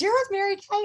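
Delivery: curious stranger. Retold or imitated. Man she met asks about Mary Kay, lightly voiced surprise. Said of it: "he goes".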